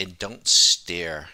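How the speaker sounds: slow, loud, emphatic delivery.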